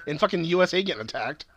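high-pitched, rapid-fire complaint; exasperated outburst. Real, not acted. Host to co-host who keeps interrupting him, exasperated.

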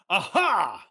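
loud, sudden, gloating "Aha"; triumphant hard voice. Acted. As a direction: bark out the catch. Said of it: "the old man with the hard voice".

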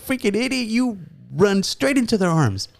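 high-pitched mock scolding; roasting. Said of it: "they start roasting me about that".

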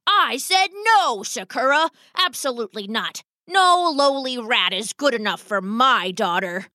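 firm papa rat laying down the law; stern rat father. Acted.

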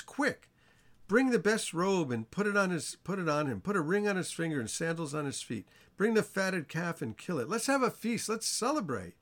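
father calling out a feast order, high and excited; overjoyed father to servants, excited; joyful father. Retold or imitated. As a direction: shout for joy to the servants.

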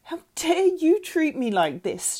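slow, high outraged yell; furious yell. A narrator's reading. Mother pulling girl upright, yelling furiously. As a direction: yell it, weighting each word. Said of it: "she yelled".

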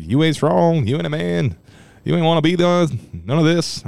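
high, put-on tough-guy taunts; Mister T. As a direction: berate someone in a hammed-up character voice. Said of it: "why I'm talking like Mister T".

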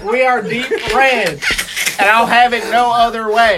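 proud redneck voice. Acted. Mock proud red-state voice.

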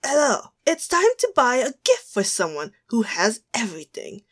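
attempted British Cockney voice; mock British announcer reading a question; Cockney accent. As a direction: read it out in a put-on British accent. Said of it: "say it with a Cockney accent".

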